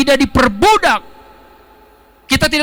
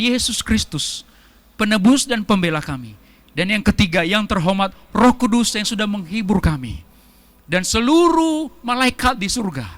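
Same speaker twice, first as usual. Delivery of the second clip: mock formal prayer; 2 semitones lower than usual. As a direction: parody a pompous church protocol. (meniru doa formal yang kaku)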